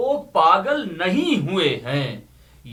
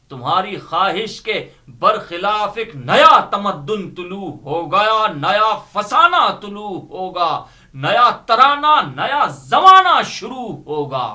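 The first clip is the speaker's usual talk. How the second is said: louder, building declamation; rousing climax; 6 dB louder than usual. Acted. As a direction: build to a ringing proclamation. (بلند ہوتی ہوئی پرجوش للکار)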